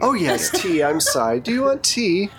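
put-on high, apologetic older hostess voice; flustered hostess. Hostess belatedly offering tea to her guest, flustered. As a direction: remember your manners suddenly, pitch jumping up. Game master as forgetful Philippa.

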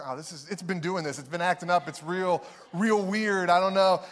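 playing it off. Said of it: "you play it off".

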